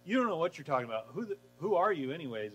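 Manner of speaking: fast dismissive scoff. Retold or imitated. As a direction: brush him off quickly. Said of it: "They go".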